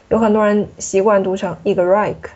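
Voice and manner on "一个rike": "一个rike" with an English r starting "rike"; English-influenced r. Shown as a demonstration. Teacher imitates a common learner error, English r in "rike". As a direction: swap the uvular sound in "rike" for an English r. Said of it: "这是英语".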